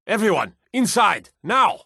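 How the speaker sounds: herd everyone inside, fast; urgent order. Acted. Guard ordering people indoors during dragon attack, urgent shout.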